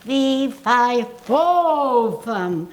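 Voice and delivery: the coach's drill, done loud and round; voice exercise. Shown as a demonstration. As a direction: project it like a vocal warm-up. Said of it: "hold on to it and go".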